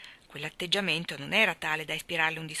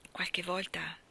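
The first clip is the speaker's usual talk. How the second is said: grumbling; 4 dB quieter than usual. A narrator's reading. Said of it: "brontolò Teddy".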